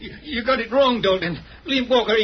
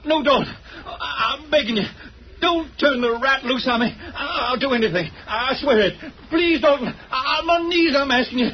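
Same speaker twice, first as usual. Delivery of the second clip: desperate begging; 3 semitones higher than usual. Acted. Begging not to be killed.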